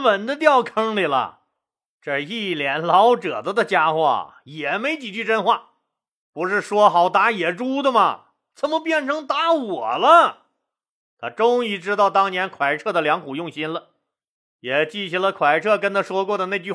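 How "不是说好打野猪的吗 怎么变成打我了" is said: a touch of mock outrage at being tricked; indignant disbelief. Han Xin realizes he fell into a trap, indignant disbelief.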